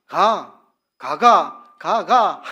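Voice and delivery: Gyeongsang ga-ga. Shown as a demonstration. Preacher demonstrating dialect, a loud Gyeongsang "가가". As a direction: sing the "가가" tones the Gyeongsang way. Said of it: "제가 해볼게요".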